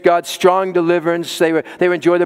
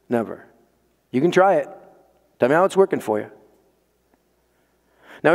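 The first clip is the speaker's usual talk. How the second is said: ordinary talk, nothing marked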